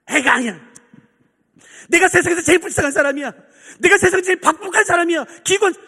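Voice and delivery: high, loud mock lament; loud, whining acted self-pity; self-pitying wail. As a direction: wail your misery in hammed-up prayer. Self-pitying believer wailing in prayer.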